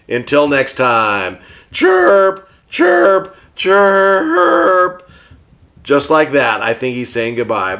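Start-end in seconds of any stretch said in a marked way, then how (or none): 1.7-5.1 parakeet chatter. Pretend. Puppet bird says goodbye.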